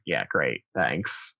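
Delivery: deadpan, unimpressed gratitude; sarcastic. Retold or imitated.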